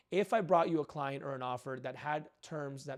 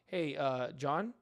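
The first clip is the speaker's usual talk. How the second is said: relaxed and unhurried, like a friend; calm downward tone; much slower than usual. Shown as a demonstration. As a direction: lower and composed, falling at the end. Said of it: "lower downward inflection, calm and composed tone".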